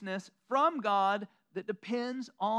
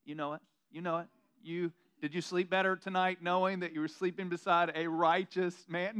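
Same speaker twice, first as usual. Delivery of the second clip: smug sweet-talk, pleased with himself; cocky boast; 4 semitones lower than usual. Retold or imitated. Husband bragging to sleepy wife Jody, mock swagger. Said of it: "turn over to Jody and go".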